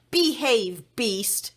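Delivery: loud, stern order; shouted command. A narrator's reading. The princess shouts an order at the monster, firmly. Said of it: "she shouted".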